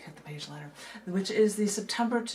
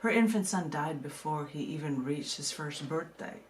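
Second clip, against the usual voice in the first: poem reading. Acted. Reads her poem aloud.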